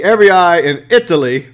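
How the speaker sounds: ordinary talk, nothing marked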